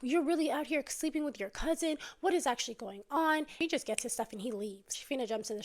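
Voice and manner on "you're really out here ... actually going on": mock furious confrontation; going off. Wife, catching husband lying, going off at him. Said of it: "now she's going off".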